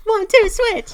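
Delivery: very high, loud hype call; catchphrase shout. Pretend. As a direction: yell the title like a crowd chant.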